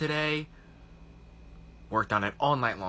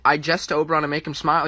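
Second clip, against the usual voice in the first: a quick, louder English accent on "I jest to Oberon"; 3 semitones higher, 6 dB louder, faster than usual. Shown as a demonstration. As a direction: deliver the Shakespeare line in a stagey English accent. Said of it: "I did an accent".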